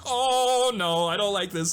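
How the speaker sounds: high, loud panicked cry; freaking out. Retold or imitated. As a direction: squeal in disgusted panic. Loretta freaking out after lick.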